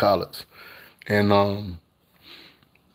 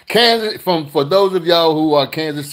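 excited call-out; 6 semitones higher, 5 dB louder than usual. Real, not acted. Calling out Kansas fans.

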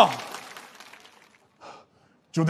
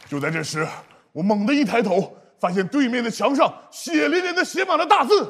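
suspense narration; 3 dB quieter than usual. Acted. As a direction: build to a dramatic reveal. Tells a suspense story.

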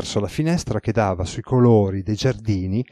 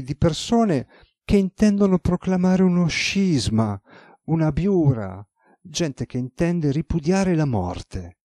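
deferential secretary; 5 semitones higher than usual. Acted. Secretary reports to his lord.

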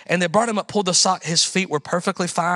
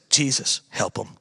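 low, soft, barely-there prayer; weak offhand prayer to a boy; feeble prayer; 12 semitones lower, 6 dB quieter than usual. Retold or imitated. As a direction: mumble it like you have no faith. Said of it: "The prayer literally said".

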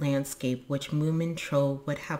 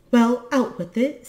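high, loud, brisk urging; impatient prompting; 8 semitones higher, 7 dB louder than usual. A narrator's reading. Moominmama prompts the blushing boy, impatient urging. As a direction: push them to spit it out.

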